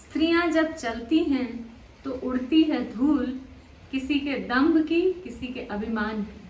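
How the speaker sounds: measured poem reading, phrase by phrase with pauses; poetry recitation. Acted. Poet opens the programme with her verse on women walking, recited.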